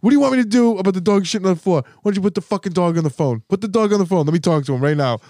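hammed-up scolding of a sibling on the phone; over the phone, scolding his brother about the dog, mock angry; mock angry phone rant. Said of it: "and I was like".

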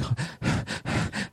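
short airy gasps of laughter; laughing yourself out of breath; imitated breathless laugh. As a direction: mimic laughing until you need air. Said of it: "you're trying to catch your breath".

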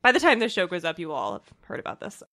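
hoarse from a cold; croaky, congested cold voice; frog voice. Real, not acted. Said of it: "This frog voice".

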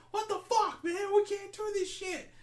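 very high, squealing mock protest; panicked soldier. Soldiers refusing the captain's order, high panicked squeal. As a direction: shriek it like a terrified grunt.

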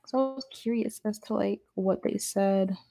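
reverb on the mic; big hall echo. Real, not acted. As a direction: voice echoing in a hall. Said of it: "Sorry for the reverb".

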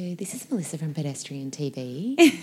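phone voice. Retold or imitated. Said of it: "when you have the phone voice".

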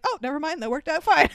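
can barely get it out for laughing; laughing quote. Retold or imitated. Ryan Gosling shrugs off a lucky accident, laughing. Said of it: "Ryan Gosling's like".

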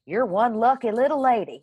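lightly voiced Southern officer in a thick Southern accent; officer greets her with a light Southern accent. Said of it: "picture it in your daddy's voice".

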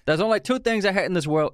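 put-on failed try at Caine's British accent; a botched cockney Caine accent; attempted British accent. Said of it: "I can't do the accent".

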